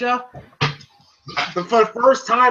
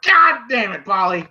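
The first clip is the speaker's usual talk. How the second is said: higher, mock-exasperated outburst; imitating a fed-up rant, higher pitched; exasperated Paulie; 6 semitones higher than usual. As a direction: throw up your hands at Paulie and the robot. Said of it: "And I'm like".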